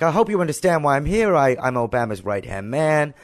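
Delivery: imitated American accent, starting high. FBI agent justifying his visit, imitated American accent. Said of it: "sorry for my American accent".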